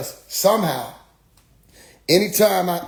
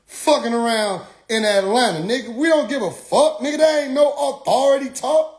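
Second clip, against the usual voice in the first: tag; 4 semitones higher than usual. Real, not acted. Rant at aggressive street preachers.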